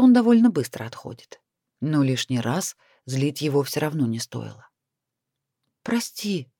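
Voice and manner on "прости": whispered apology on a sigh. A narrator's reading. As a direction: breathe it out as a whisper. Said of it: "вздохнула".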